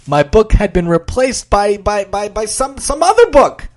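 flustered stutter rising high; stammering. Acted. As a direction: trip over the words in shock. Stumbling in shock.

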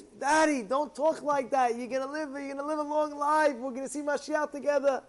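a son begging his father not to speak of dying; pleading son. Acted.

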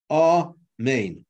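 amen said in two clear syllables, ah-men; amen with a full final n. Shown as a demonstration. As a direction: give both syllables of amen, ending on the n. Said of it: "It's two syllables".

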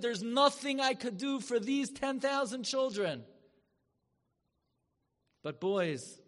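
loud, high, impassioned declaration; booming cry. Retold or imitated. Rabbi thundering to the yeshiva boys, booming high and loud. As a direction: proclaim it like a roaring lion.

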